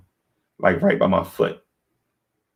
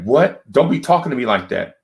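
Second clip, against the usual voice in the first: wife's indignant retort; 4 semitones higher than usual. Retold or imitated. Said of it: "she's like".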